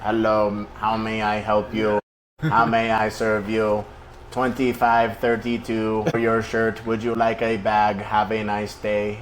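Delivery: lightly voiced scripted cashier; bored mechanical politeness. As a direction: rattle off the polite script like an NPC. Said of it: "it's just an N P C".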